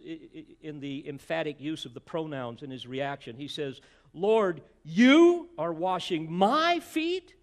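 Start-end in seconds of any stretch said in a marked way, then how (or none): 4.1-7.3 louder, slow, disbelieving question; shocked disbelief. Pretend. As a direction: ask it slowly, stunned and embarrassed. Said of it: "he's shocked".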